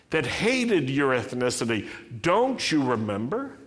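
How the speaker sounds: rising, urgent pleading as God. Acted. Preacher voicing God to Israel, urgent pleading.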